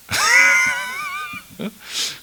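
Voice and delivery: sudden high-pitched laugh; high burst of laughter. Real, not acted. Pastor cracking up at his own rant, high laugh. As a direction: let a squealing laugh break out.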